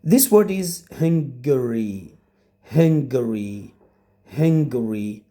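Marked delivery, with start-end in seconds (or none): 1.0-2.2 "Hungary" in three syllables, HUNG-guh-ree; correct pronunciation. Shown as a demonstration. Teacher shows students how this word is pronounced, correct pronunciation of Hungary. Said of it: "know how to pronounce this word". 2.6-5.2 "Hungary" in three syllables, HUNG-guh-ree; correct pronunciation. Shown as a demonstration. Teacher shows students how this word is pronounced, correct pronunciation of Hungary. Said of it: "know how to pronounce this word".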